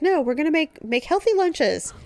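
imitating a determined mom. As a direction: drag it out, bossy. Mom's healthy lunch phase.

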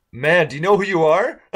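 high, loud starstruck outburst; starstruck blurt. Retold or imitated. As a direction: blurt it out, dazzled. Starstruck blurt meeting a famous drummer.

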